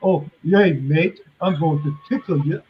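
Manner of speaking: teasing imitation of an Australian accent; mock Australian. Yankee teasing an Australian friend, mock Australian accent. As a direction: send up a harmless Australian threat. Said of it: "You guys say".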